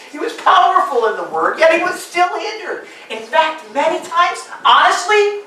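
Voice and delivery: high, loud preacher's exhortation; full-force preaching. Acted. Pastor urging the discouraged congregation, preaching at full force. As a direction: thunder it out to the pews.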